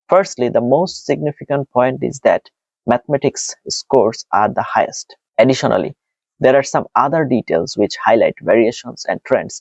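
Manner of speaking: slow, even exam-answer reading; model answer read-out. Shown as a demonstration. Teacher reads a template for students, slow and even.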